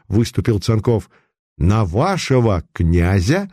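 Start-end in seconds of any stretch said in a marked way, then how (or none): 1.6-3.5 slow, mocking echo of the question; sarcastic. Putilin mocking the false prince, slow and sarcastic. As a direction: throw his words back with scorn. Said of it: "саркастически расхохотался".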